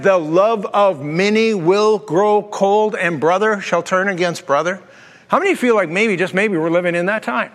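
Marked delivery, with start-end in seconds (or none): 0.0-4.8 quoting Jesus. Acted.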